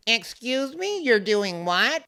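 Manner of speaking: high, rising offended challenge; high indignant retort. Retold or imitated. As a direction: snap back in high disbelief. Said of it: "Shay is like".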